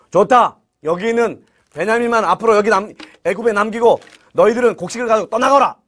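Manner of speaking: acted order from a ruler; storyteller's governor giving a command. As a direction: hand down a firm order. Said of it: "라고 명령하는 거예요".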